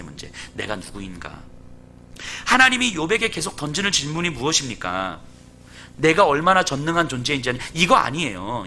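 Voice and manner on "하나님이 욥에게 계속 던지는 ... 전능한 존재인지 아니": usual speaking voice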